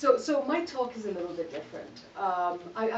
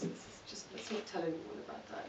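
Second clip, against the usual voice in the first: soft whisper, as if sharing a secret; conspiratorial whisper; 10 dB quieter than usual. Real, not acted. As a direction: lean in and keep it between us. Confiding a secret to audience.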